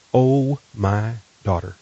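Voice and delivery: slow, drawn-out, gently voiced endearment; tender imagined whisper. Host voices God calling a listener by name, tender and slow. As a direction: speak it slowly as God calling a child. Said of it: "God whispering your name".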